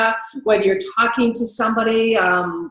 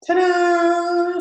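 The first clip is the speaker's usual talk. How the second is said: ta-da reveal; 8 semitones higher than usual. Shown as a demonstration. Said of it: "reveal fanfare".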